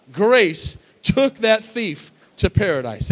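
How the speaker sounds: slow loud proclaiming repeat. Shown as a demonstration. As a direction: come back bigger and land it hard on took. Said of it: "repeat of line 60".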